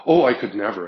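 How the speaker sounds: loud, shocked little protest; prim refusal. Retold or imitated. The bashful man refusing to take his shirt off, loud and scandalized. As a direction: clutch your pearls and refuse, loud.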